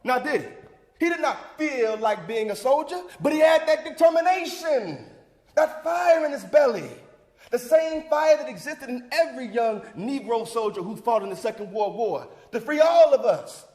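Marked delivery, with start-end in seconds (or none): 3.2-13.7 stirring speech, rising on key phrases; rousing oratory. Acted. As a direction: fire up the church crowd. Rousing oratory about soldiers' determination.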